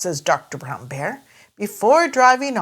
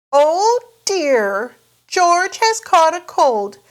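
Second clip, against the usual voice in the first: higher, louder worried mother; Mummy Pig voice; 9 semitones higher, 4 dB louder, slower than usual. Acted. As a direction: fuss like a worried mum. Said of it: "says Mummy Pig".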